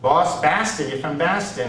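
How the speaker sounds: exaggerated Boston accent on the city name; mock Boston accent. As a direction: tease with a broad Boston accent. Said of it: "you lost the accent".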